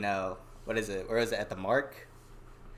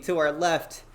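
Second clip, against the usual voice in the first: announcer hype; 6 semitones higher, 7 dB louder than usual. Real, not acted. Host announces the special guest.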